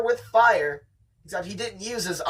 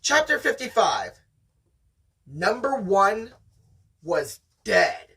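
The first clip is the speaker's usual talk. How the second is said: dramatic reading. Acted. Dramatic chapter reveal.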